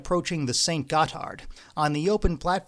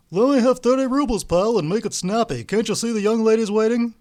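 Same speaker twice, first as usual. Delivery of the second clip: higher, louder impatient order; brusque demand; 8 semitones higher, 6 dB louder than usual. A narrator's reading. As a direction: hurry him up, bossy. Ostap demands money.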